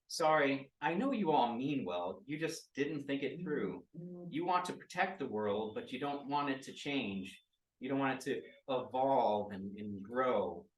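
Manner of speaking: a booming, commanding address to the group; booming villain lecture that softens as it goes; fairly booming voice. Acted. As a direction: boom it out over everyone, then ease down. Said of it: "saying to all of you in a fairly booming voice".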